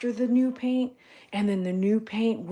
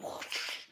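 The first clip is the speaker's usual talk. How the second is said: whoosh; 13 dB quieter than usual. Retold or imitated. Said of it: "come in and blow".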